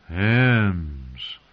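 hushed, longing reverence; reverent. Acted. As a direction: say it with awe, like something holy. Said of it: "said in a reverent voice".

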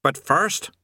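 lightly voiced high demon; chirpy little demon trill. A narrator's reading. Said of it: "it trilled".

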